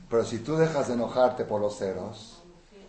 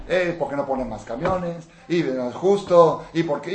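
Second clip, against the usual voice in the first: complaining woman yelling; 6 semitones higher, 9 dB louder than usual. Retold or imitated. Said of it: "la señora gritando".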